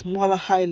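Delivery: "molahai" with an h, not a k; learned pronunciation. Shown as a demonstration. Telling viewers what she learned, "molahai" with an h. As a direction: soften the third syllable of "molahai" to h. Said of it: "So I learned".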